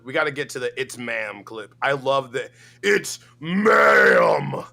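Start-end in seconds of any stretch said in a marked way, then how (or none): 2.8-4.7 excited shout. Real, not acted. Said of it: "excited outburst".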